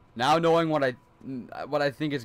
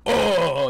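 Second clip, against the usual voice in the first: short loud startled "Oh!", louder; manly yelp; 6 semitones higher, 8 dB louder than usual. Retold or imitated. Retelling how he reacts to scares, loud manly yelp. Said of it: "like a man".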